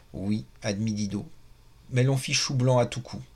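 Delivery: measured, lively reading aloud of a novel; expressive literary read-aloud; story narration. A narrator's reading.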